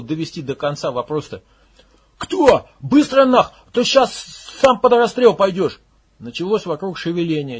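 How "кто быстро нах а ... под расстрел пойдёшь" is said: much higher, loud threat; armed commander yelling in rage; furious yell. Acted. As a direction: scream the threat at him. Max threatening at gunpoint.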